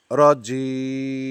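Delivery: রজিম very slow with a hard জি and a long ending; correct রজিম. Shown as a demonstration. Teacher modelling রজিম for students, very slow and drawn out. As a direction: hold the end of রজিম three beats. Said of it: "কমপক্ষে এক second টানতে হবে".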